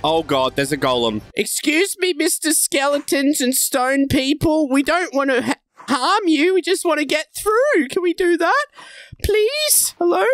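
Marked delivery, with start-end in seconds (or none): 1.3-10.2 higher-pitched, drawn-out polite appeal; playful, overly courteous request; mock polite plea. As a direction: plead sweetly with the monsters. Timid plea addressed to game monsters.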